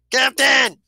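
high, drawn-out shout for the captain; yelling. Acted. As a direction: holler it into the comm, stretched out. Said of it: "he practically yells at it".

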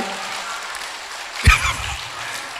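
long high airy laugh; breathy laugh. Real, not acted. Preacher keeps laughing at the story, high. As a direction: keep laughing through.

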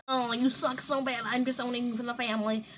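lightly acted mom disowning her kid; lightly voiced mom. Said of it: "Mom's like".

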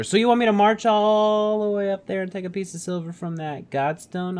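high, loud disbelieving question; incredulous. Pretend. Player voicing Rook, balking at the godstone climb, incredulous.

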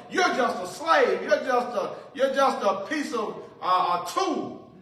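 lightly played contemptuous king; mocking Pharaoh. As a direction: sneer at their God like a tyrant. Preacher voices Pharaoh mocking God.

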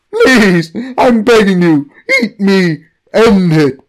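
desperate begging. Acted. God begs in agony.

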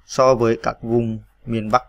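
slow, careful reading of the words; slow dictation. Shown as a demonstration. Teacher dictating the next words slowly. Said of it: "V kép để lấy dấu ơ".

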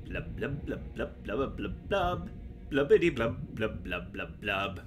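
low bubbly fish blubbing; shouting underwater. Pretend. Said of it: "so I decided to talk with the fishies".

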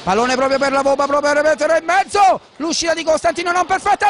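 rapid play-by-play building to a goal; breathless italian goal commentary. Acted. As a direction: call the second goal live. Live goal call.

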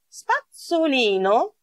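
"Spazzolino" slowly, zz said as ts; double Z as ts. Shown as a demonstration. Teacher models toothbrush in Italian, slow ts pronunciation. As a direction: draw out "Spazzolino" with the ts of pizza. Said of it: "το προφέρω «ц» όπως πίτσα".

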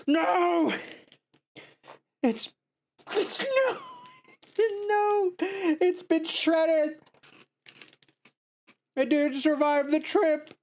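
anguished high-pitched no; mock grief over broken crackers; dismayed high wail. Real, not acted. Crackers shredded in shipping.

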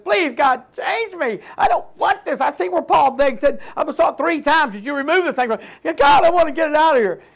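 a hint of desperate prayer; retold begging. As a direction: imitate yourself begging God. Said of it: "I begged God one time".

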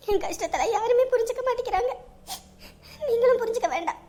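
tearful, breaking voice; crying. Acted. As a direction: weep out the complaint. Feels nobody understands her. (அழுதுகொண்டே)

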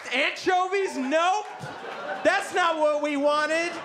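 high-pitched affronted customer; squawky, emphatic complaint; indignant rejection. Retold or imitated. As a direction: refuse it in mock outrage. Friend rejecting order, acted.

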